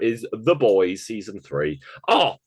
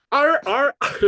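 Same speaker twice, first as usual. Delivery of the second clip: attempted Italian accent; 6 dB louder than usual. Shown as a demonstration. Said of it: "Can you say it in an Italian accent now?".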